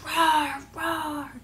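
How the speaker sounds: playful roar. Shown as a demonstration. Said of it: "They go".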